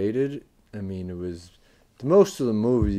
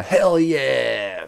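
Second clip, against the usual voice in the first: mock exclamation; 4 semitones higher, 7 dB louder than usual. Imitates text on a freeze frame.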